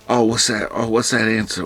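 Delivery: flustered, repeating to yourself; nervous. Retold or imitated. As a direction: act out grasping for a forgotten answer. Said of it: "you get nervous".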